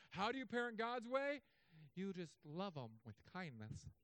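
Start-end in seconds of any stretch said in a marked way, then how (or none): 1.9-3.9 soft, slow, sweetly soothing advice; mock gentle. Parenting book advising how to parent, mock gentle. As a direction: ease through it softly and slowly.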